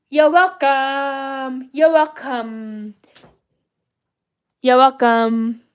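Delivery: Maui catchphrase. Pretend. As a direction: drag it out like the cocky demigod.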